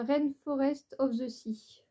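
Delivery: slow English with a French accent. Real, not acted. Vlogger names her makeup palette for viewers, French-accented English. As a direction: read the English name haltingly in a French accent. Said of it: "excusez mon accent pourri".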